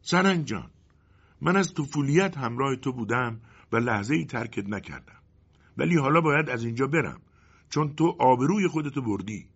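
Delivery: a disappointed companion parting ways; shadow's voice. Acted. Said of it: "سایه گفت".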